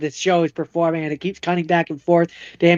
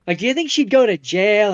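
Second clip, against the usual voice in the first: higher mock-innocent asking voice; sly questioning; 5 semitones higher than usual. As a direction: fish for answers while playing innocent. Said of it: "He's like".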